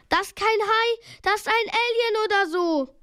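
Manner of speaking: high-pitched panicked exclamation; urgent, high voice; alarmed yelling. A narrator's reading. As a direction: shout it out in alarm. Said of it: "brüllte Peter".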